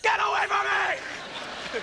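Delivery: loud, slow, drawn-out shout at a pest; mock-angry yell at the camera guy. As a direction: shoo them off, hammed-up. Yelling at the following cameraman.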